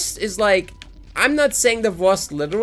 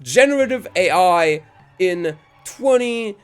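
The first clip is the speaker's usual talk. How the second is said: lightly mocked interviewer, higher pitch; put-on higher questioning voice; excited video host; 4 semitones higher than usual. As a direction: imitate an over-keen street interviewer. Imitates video host asking question.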